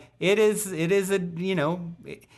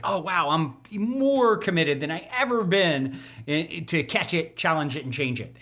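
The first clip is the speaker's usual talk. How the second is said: a touch of wonder easing into resolve; freshly inspired, lightly acted. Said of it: "I feel inspired to be like".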